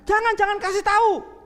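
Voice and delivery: high, loud, urgent no; older sister begging her not to tell; urgent warning. Acted. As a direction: stop her before she calls. Marta urgently stops her sister.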